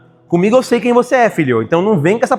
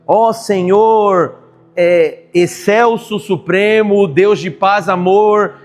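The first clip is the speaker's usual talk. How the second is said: slow, drawn-out pompous prayer voice; mock pious prayer; slower than usual. Pastor mocking a showy prayer to God. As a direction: ham up a flowery prayer. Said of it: "você nem fala assim direito".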